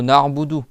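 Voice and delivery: NA'BUDU in one unbroken piece; one word. Shown as a demonstration. Teacher corrects the split, word said whole. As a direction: join "na" and "budu" into na'budu. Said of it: "c'est un seul mot".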